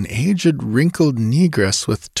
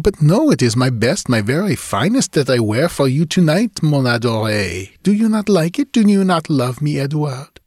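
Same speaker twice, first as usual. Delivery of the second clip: higher, rising questions, wounded; hurt pleading Julie; 6 semitones higher than usual. Acted. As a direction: plead for his love with rising hope. Julie asks if he loves her.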